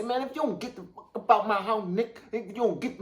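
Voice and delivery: quick, cocky threat to an intruder; fast street threat. Pretend. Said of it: "You gotta hold it sideways. Say".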